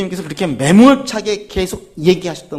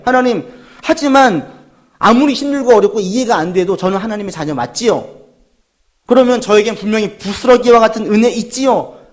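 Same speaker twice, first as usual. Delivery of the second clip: louder, earnest questioning plea; pleading prayer; 3 semitones higher, 3 dB louder than usual. Acted. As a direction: beg God for reassurance. Congregation's model prayer voiced. (간절히 매달리며 크게)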